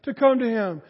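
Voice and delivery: loud, rising preacher's cry; full-force pulpit shout; preaching shout. Real, not acted. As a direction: build it up and shout it to the congregation. Preacher building to a climax.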